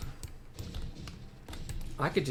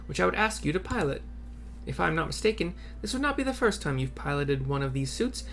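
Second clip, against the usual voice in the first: voicing Mikot; 3 semitones higher, faster than usual. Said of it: "Mikot, obviously".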